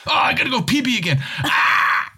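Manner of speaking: high, crying shout; pained cry. Pretend. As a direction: wail it out in urgent pain. Sudden pee emergency cry.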